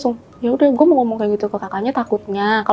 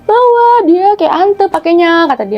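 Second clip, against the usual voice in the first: put-on child voice; 4 semitones higher, 4 dB louder, slower than usual. Ponakan kecil bercerita.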